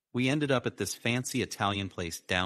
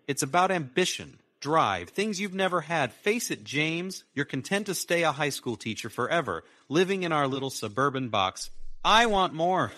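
a much higher, louder woman's voice, cutting; Sarah, contemptuous; 8 semitones higher, 4 dB louder than usual. A narrator's reading. Wife belittling her teacher husband, high scornful voice. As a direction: scorn him for settling, higher and sharper.

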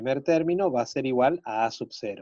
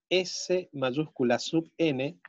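dictating; 3 semitones higher, slower than usual. Shown as a demonstration. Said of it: "teacher dictating to class".

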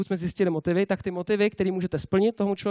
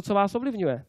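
ordinary talk, nothing marked

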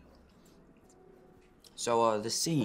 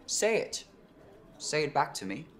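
demanding; 7 semitones higher, 4 dB louder than usual. Acted. Ordering partner to repeat the name.

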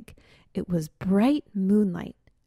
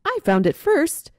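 higher and louder, indignant; indignant claim; 9 semitones higher, 8 dB louder than usual. Acted. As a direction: insist you were first. Skunks arguing over nest.

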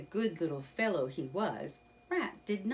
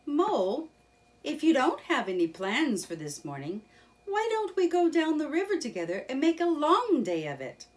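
louder, higher and fast, eager; eager suggestion; 9 semitones higher, 7 dB louder, faster than usual. Acted. Rat invites Mole downriver, eager fast suggestion. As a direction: pitch the day out excitedly. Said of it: "he suggested".

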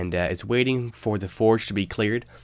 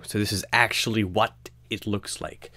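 hushed aside whisper. Real, not acted. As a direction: drop to a whisper. Quiet aside about the map.

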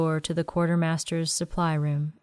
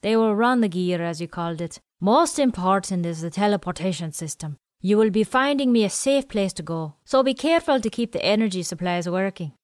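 put-on quirky old man; 2 semitones higher than usual. Willie speaking.

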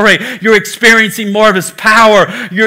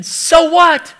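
a higher-pitched, dismissive so what; lightly voiced skeptical wife; unimpressed; 7 semitones higher than usual. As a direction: shrug it off like the wife would. Wife's unimpressed thought.

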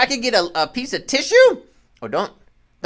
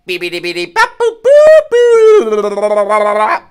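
robot voice; 11 dB louder, much slower than usual. Acted. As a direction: beep boop like a toy robot. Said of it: "the wire robot said".

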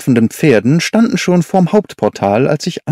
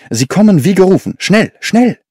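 fast, higher, urgent; hurried call; 5 semitones higher than usual. A narrator's reading. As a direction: rush him along, higher. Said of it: "rief er". (hastig, höher gerufen)

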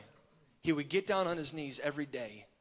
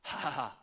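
low, soft "ha ha ha"; mock chuckle, spoken softly; imitated laugh; 5 semitones lower, 7 dB quieter than usual. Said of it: "Jesus laughed at him and said".

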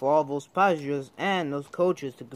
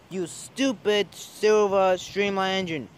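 cross driver; 4 semitones higher than usual. Acted. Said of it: "He looked very cross".

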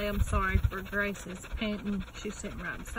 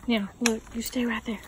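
loud, firm directions to a dog; raised voice, insistent commands; 3 semitones higher, 8 dB louder than usual. Real, not acted. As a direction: steer the dog onto the rock. Directing dog onto the rock.

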